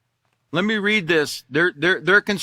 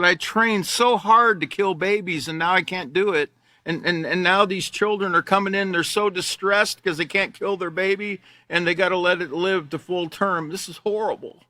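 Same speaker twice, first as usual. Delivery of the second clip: mocking the doctor; 3 semitones higher than usual. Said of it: "This is a woman speaking. She said".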